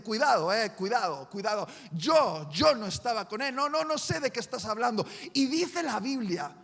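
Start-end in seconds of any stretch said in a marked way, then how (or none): 0.0-5.1 firm warning. Acted. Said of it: "Pedro se pone firme".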